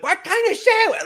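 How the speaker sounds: high, loud mock yelling; imitating a woman yelling an order. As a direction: shout it across the shop. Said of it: "at the top of her lungs".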